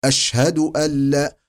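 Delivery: أشهد أن لا with the nun fully merged into the lam; careful idgham demo. Shown as a demonstration. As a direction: blend أن into لا without nasal. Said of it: "ونجولي ال- النون".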